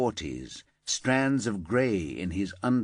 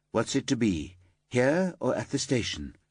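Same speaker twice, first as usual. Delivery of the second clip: level voice; 3 semitones higher than usual. Acted. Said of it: "Paula kept her voice level".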